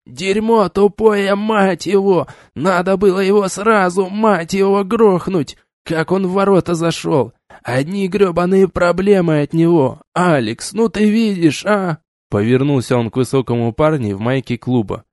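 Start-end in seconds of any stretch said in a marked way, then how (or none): 0.1-10.0 furious high Irish rant; Irish accent. Acted. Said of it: "с жутким ирландским акцентом". 10.1-12.0 put-on Irish accent. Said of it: "с жутким ирландским акцентом".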